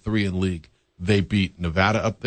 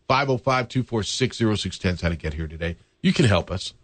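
hoarse voice. Real, not acted. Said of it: "My voice is a little shot today".

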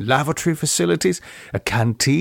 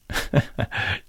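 soft chuckle; 2 semitones lower, 6 dB quieter than usual. Acted. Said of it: "She chuckled".

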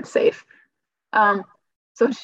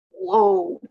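a high, stunned whoa; mock astonished whoa; retold surprised whoa; 12 semitones higher than usual. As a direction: gasp it out in disbelief. Stunned by tumor news.

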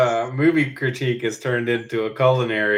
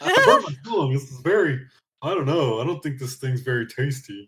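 mouth full of hot food; 2 semitones higher than usual. Acted. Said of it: "the slower kid in the group doesn't just bite it".

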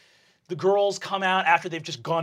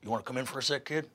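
demon voice; 4 semitones lower, 9 dB quieter, much faster than usual. Acted. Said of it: "Gorthalax looks at you and says".

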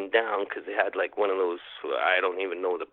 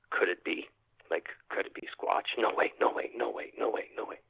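breathy, half-whispered no way; hushed disbelief; 7 dB quieter than usual. Retold or imitated. Retold inner disbelief at sighting.

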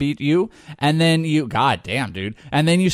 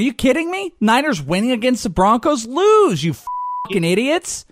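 frustrated yell; 8 semitones higher than usual. Retold or imitated. Fan yelling at the Niners to lose, angry shout. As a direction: curse them out like you're watching the game. Yelling at his team losing.

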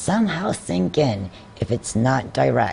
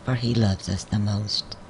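measured, lower devotional verse reading; poem reading; 4 semitones lower, 5 dB quieter than usual. Acted. Reading a devotional poem to listeners, measured poem reading. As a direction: recite the rhyme gently, line by line.

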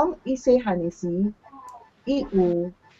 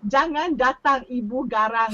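amused punch line; 3 semitones higher than usual. Real, not acted. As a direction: punch line through laughter, slightly high. Delivers joke sign's punch line.

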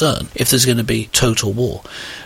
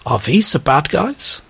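put-on German accent; 4 semitones higher, slower than usual. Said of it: "this is my brilliant German accent".

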